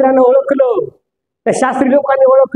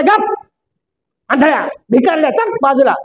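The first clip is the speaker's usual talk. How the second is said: retold scolding. Crowd hushing the blind beggar, lightly acted scolding. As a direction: shoo him off, mildly acted. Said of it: "लोक दटवत आहेत".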